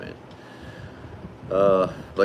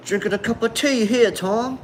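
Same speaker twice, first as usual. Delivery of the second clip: much higher, hammed-up Australian accent; 3 dB louder than usual. Reading a viewer's chat line in mock Australian accent. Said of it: "Is that a good accent?".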